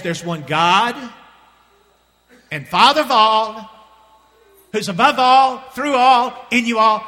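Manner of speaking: loud, high, drawn-out preaching; emphatic proclamation. Real, not acted. Preacher declares one God to congregation, emphatic proclamation. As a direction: build into a ringing declaration of scripture.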